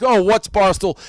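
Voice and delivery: lightly mocking, playing dumb; feigned innocence. Host mocking a rival writer, mild fake innocence. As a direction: mimic a guy pretending he's never heard of it. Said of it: "he tries to act".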